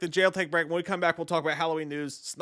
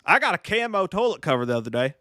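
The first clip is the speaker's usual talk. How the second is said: put-on deadpan Southern accent, slightly raised pitch; 4 semitones higher than usual. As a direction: sound serious behind a Southern accent. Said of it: "you kinda sounded serious, like you're just hiding it under the Southern accent".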